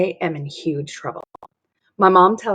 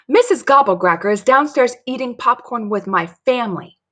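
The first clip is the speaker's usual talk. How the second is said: higher, urgent announcement; alarmed report; 6 semitones higher, 4 dB louder than usual. Acted. Dory runs to tell Mary the news, alarmed. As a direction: report shocking news breathlessly fast.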